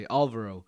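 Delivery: "Álvaro" stressed on the first A, ÁL-varo. Shown as a demonstration. Correcting Americans, stress on the first A. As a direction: hit the first syllable of "Álvaro". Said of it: "the strength is in the first A".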